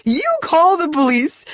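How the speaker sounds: high, loud, spitting fury; rage. Acted. Wife daring them to call police, enraged shouting. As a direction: threaten them through the door. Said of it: "sobbing turned back into rage".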